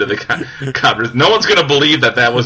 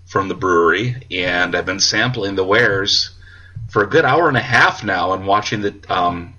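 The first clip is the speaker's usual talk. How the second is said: tipsy. Real, not acted. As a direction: talk a little tipsy. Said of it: "I'm a little tipsy right now".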